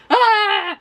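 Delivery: high mock yell of frustration; frustrated yell. Reader re-enacting her yell at the book, high and frustrated. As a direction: yell at the sky in exasperation. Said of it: "yelled to the sky for a little".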